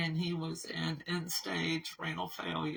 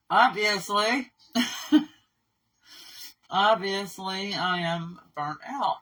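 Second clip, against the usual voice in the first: rueful laugh; 3 semitones higher, 7 dB louder than usual. Real, not acted. Laughing at own exhaustion.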